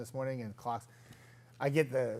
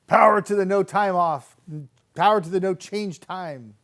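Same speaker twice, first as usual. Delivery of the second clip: cheering slogan; 6 semitones higher, 9 dB louder than usual. Retold or imitated. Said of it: "Tamara says".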